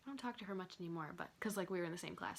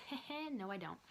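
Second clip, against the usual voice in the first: laughing. Retold or imitated. Joking reversal about missing school.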